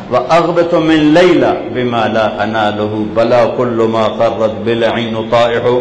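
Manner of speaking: measured, metrical poetry recital; Arabic verse recitation. Acted. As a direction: recite the classical verse in even cadence. (عربی شعر خوانی)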